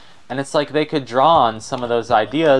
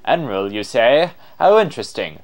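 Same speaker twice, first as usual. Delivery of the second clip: intrigued, theatrical explorer; showy scholar-adventurer, curious; extra explorer voice; 3 semitones higher, 4 dB louder than usual. Acted. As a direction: muse aloud like an extravagant adventurer. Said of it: "give him an extra voice".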